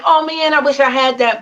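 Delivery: play-acted pang over lost luggage; mock wistful. Guest admitting she missed her lost things, mock wistful. Retold own wistful thought.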